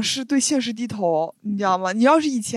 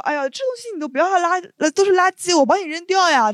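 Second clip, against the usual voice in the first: quick, higher, mock-helpful auntie voice; imitating old auntie; 6 semitones higher than usual. Auntie pretends to clear away trash, mock helpful. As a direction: play the sly auntie offering help. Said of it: "然后说".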